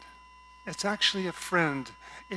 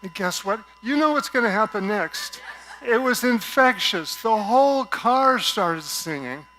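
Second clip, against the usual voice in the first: excited; 5 semitones higher, 9 dB louder than usual. Real, not acted. Joyful climax of story.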